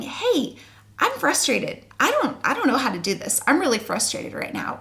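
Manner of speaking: mild mock frustration as the child; frustrated baby's voice. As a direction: speak for the baby, a touch exasperated. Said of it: "they're saying".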